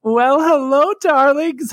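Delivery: high, drawn-out diva greeting; campy drag queen. Acted. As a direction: greet them like a grand diva.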